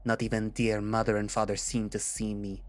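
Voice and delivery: put-on bitter villain, lightly French-accented; bad French accent. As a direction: pour out old grievances in a put-on French accent. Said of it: "my most horrible attempt at making a French accent".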